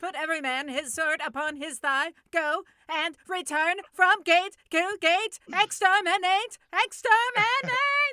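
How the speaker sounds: drawn-out booming announcer voice, very high and very loud. Show a friend how your announcer attempt missed the mood, in an announcer voice close to Dalek voice. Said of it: "how close announcer voice and Dalek voice were".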